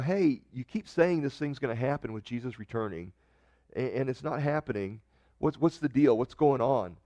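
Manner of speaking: ordinary talk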